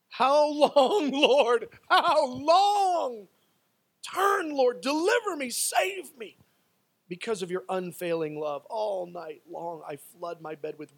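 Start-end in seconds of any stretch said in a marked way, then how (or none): 0.1-6.4 high, loud desperate plea; anguished cry. Acted. Preacher as psalmist begs the Lord for deliverance, crying out. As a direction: cry it out with full force to heaven.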